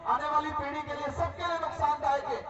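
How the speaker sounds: forceful public oratory in punched phrases; political rally speech. Real, not acted. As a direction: address the crowd with declamatory force, pausing after phrases. (चुनावी सभा का जोशीला भाषण)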